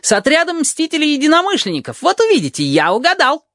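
very high excited squeal; shrill-pitched jackal crowing his guess; jackal yelling. A narrator's reading. Jackal yells to the crowd at the window, very high. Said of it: "орёт шакал".

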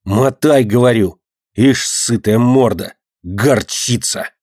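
plain reading voice

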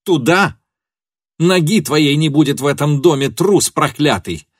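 high, loud outraged shouting; enraged tirade. A narrator's reading. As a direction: lash out at him, beside herself. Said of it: "крикнула Фенемора вне себя".

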